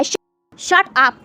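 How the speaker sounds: a loud high cry of shut up; shouted. A narrator's reading. Wing yells at the rude lady, loud high shout. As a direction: yell it so it rings through the mansion. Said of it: "वो चीख कर कहता है".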